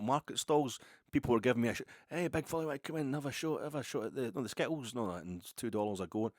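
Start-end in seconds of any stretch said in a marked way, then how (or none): 2.1-6.3 lightly voiced hawker, raised pitch, drawing in a customer; stall holder calling out. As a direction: call out like a market trader, a touch higher. Market stall vendor calling out.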